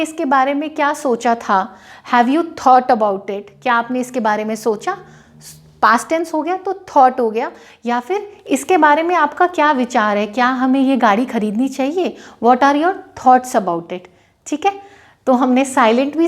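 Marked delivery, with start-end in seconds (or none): 2.1-3.4 slow example. Shown as a demonstration. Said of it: "example sentence". 12.4-14.0 slow example. Shown as a demonstration. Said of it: "example sentence".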